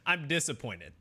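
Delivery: flat, even monotone delivery; deadpan monotone statement of displeasure. Shown as a demonstration. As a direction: say it with no rise or fall at all. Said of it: "like, monotone and just be like".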